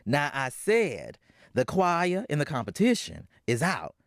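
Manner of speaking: stern mother, final word; Florence laying down the law. Acted. Mother forbidding the choir, stern and final. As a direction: shut it down like an angry mom.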